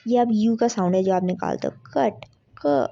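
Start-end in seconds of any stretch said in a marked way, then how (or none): 1.9-2.9 कट said slowly, with its short open u sound drawn out on its own; short u demo. Shown as a demonstration. Teacher sounding out कट for her students, slow and clear. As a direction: sound out कट, then just क, to show the vowel. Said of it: "ऐसी आवाज़ जो निकल रही है".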